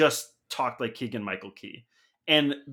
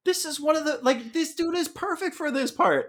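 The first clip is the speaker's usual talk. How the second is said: mock gushing; 3 dB louder than usual. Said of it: "'cause I'm like".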